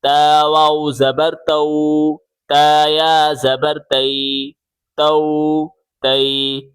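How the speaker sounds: smooth "تو" to oo and "تی" to ee, no jerk; maroof, gentle. Shown as a demonstration. Teacher modelling for pupils, gentle maroof reading without jerks. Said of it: "معروف پڑھنا ہے نرمی سے".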